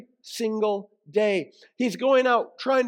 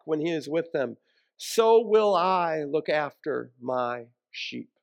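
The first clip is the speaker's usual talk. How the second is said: scripture reading. Acted. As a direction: proclaim the prophet's words with gravity. Reads Ezekiel scripture aloud.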